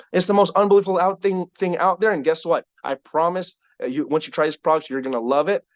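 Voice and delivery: enthusiastic sales patter, starting high; excited pitch. Shown as a demonstration. Promoter pitching products to new customers, excited. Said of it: "Be excited. When, when I go meet".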